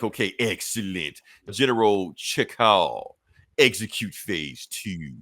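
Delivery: low, slow scheming villain; lightly voiced villain order. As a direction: drag out the command like a plotting mastermind.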